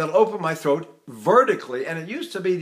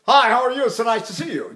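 normal diction; 4 semitones higher, faster than usual. Shown as a demonstration. Coach showing natural talk, normal diction. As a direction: say hello openly, with everyday diction. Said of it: "make my diction sound normal".

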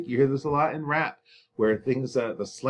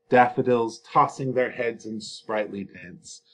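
poem reading. Shown as a demonstration. Reads example line slowly.

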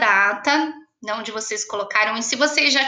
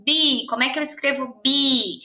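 pupil thinking aloud. Retold or imitated. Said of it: "vocês vão pensar nas sílabas".

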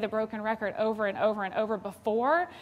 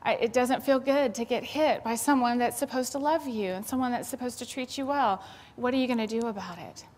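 empathetic; 2 semitones higher than usual. Shown as a demonstration. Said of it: "You stop and you say".

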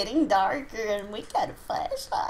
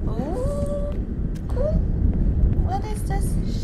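excited ooh; 14 semitones higher, 8 dB louder, much slower than usual. Real, not acted. Awed at cave.

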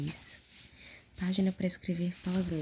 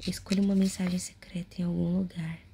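whispering. Acted. Whispered prompt.

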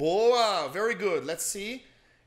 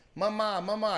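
lightly higher mother coaxing "Mamá, mamá"; mother cooing baby talk; 4 semitones higher, 3 dB louder, slower than usual. Retold or imitated. Teacher imitates mom saying mamá to her baby, lightly cooing. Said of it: "você ouvia a mamãe falando assim".

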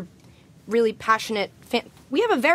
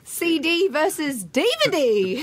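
a musician's voice; 5 semitones higher than usual. Pretend. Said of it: "Well, a musician"

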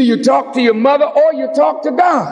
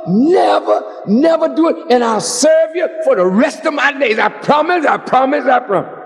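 desperate bargaining prayer; 2 semitones higher than usual. Retold or imitated. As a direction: swear to God you'll change, begging. Sinner bargains with God desperately.

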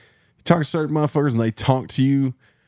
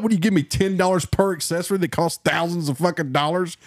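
higher, exasperated rant; retold outburst; 7 semitones higher than usual. To the adjuster, an exasperated higher rant. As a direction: throw the numbers back at him. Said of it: "I'm just like".

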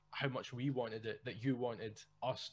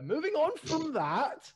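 mock hasty change; 7 dB louder, slower than usual. Real, not acted.

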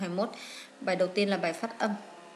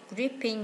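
gripping stressed on the first syllable, GRIP-ping; 2 semitones higher than usual. Shown as a demonstration. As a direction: put the weight on GRIP in gripping. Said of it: "nhấn âm một".

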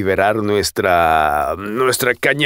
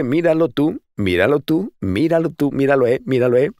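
playful sing-song; 5 semitones higher than usual. Real, not acted.

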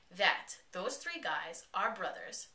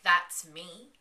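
loud, startled "That's me?"; shocked question; 10 dB louder than usual. Retold or imitated. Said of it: "Clara looks at him and was like".

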